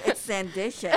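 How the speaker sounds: says "Sandition" with an extra "i" sound after the "d"; mock wrong reading of "Sandition"; mispronounced title. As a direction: reads "Sandition" as san-DISH-un. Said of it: "no, it's Sanditon and I can't read".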